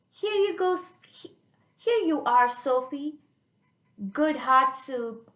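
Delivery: lightly voiced grandma. Teacher voices Chinese grandma.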